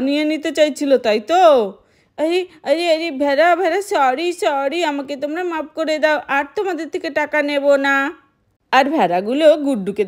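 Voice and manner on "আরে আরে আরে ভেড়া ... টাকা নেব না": put-on higher kid voice, pleading sorry; a frightened little boy begging the sheep's forgiveness; child voice apologizing.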